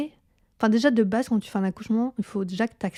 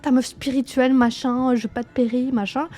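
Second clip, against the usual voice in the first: higher, bossy inner voice barking orders; 5 semitones higher than usual. Retold or imitated. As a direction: snap at yourself to just take it. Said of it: "mon corps, il me disait".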